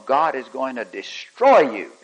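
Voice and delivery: put-on a boy scolding the class, heat building; very angry tone. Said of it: "in a very angry tone".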